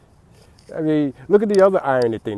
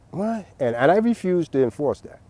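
incredulous what; 6 semitones higher than usual. Retold or imitated. Mock outrage at chanting rules.

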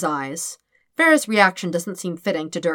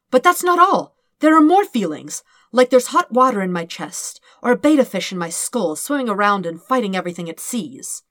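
agitated outburst; 4 semitones higher, 6 dB louder than usual. Acted. Dirk describing panic, excited.

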